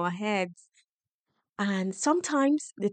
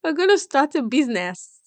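mock eager announcement. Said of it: "when you tell your brain".

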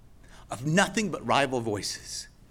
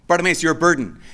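rival voice; 2 semitones higher, 6 dB louder, faster than usual. Acted. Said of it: "He doesn't argue and say".

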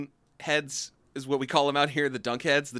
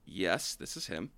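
pretend phone call; 7 semitones lower, 7 dB quieter than usual.

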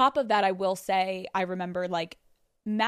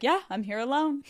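higher-pitched cocky reply; retold asshole attitude; 5 semitones higher than usual. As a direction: imitate a partner being flippant. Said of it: "Matt's like an asshole".

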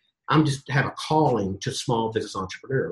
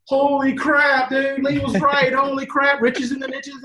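high, loud, slow astonished cry; amazed exclaiming; 11 semitones higher, 3 dB louder, slower than usual. Retold or imitated. Billy tells Lee the budget doubled, amazed and high. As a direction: let the shock burst out of you.

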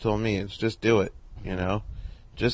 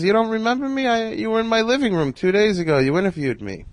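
imitating Carl Reiner; 11 semitones higher than usual. Old man voiced in phone story.

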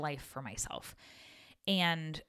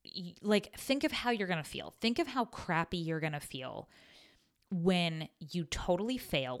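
put-on mean girl ego voice. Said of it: "that mean, like, mean girl ego voice".

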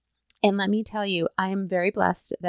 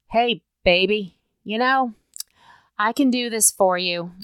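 sleazy guy. Retold or imitated. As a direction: play a greasy flatterer lightly. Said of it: "They could be really super sleazy".

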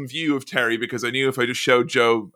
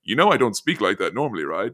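understated, matter-of-fact retort; plainly spoken reply, imitated; calm and plain; 3 semitones lower than usual. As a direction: quote him calmly, without any fuss. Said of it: "he very calmly and plainly goes".

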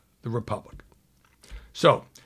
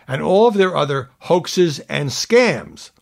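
slow and louder, capitals spoken; all caps; 4 semitones higher, 5 dB louder, slower than usual. Retold or imitated. Anchor reading Trump's capitalized phrase, slow and louder. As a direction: drag it out big and loud. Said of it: "all caps".

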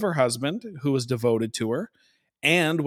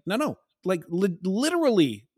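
desperate pleading; 3 semitones higher than usual. Retold or imitated. Wife pleading with husband against the intruder, urgent. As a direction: beg him to see who truly loves him. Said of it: "trying to pull back from the tantrum to be like".

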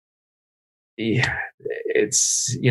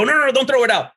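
frantic protest; 12 semitones higher, faster than usual. Retold or imitated. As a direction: beg her not to toss it, half laughing. Pleading with wife over food.

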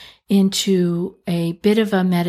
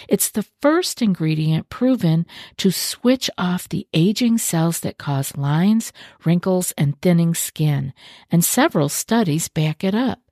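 fluent, polished podcast ad read; sponsor ad read. Acted. Host pitching skincare to podcast listeners, sponsor ad read. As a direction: read the sponsor copy smoothly, with few pauses.

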